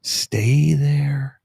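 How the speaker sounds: drawn-out, measured phrasing; deliberately slow. Shown as a demonstration. Host explaining firewall strategy, slow and deliberate. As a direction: stretch the words to make the point. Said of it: "I'll just say it slowly".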